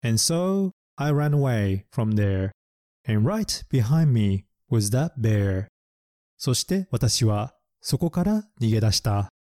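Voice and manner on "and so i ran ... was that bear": slow picture-book reading; slow storybook reading; slow story line. Shown as a demonstration. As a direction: read slowly like to children. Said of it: "絵本に出てきたセンテンスは".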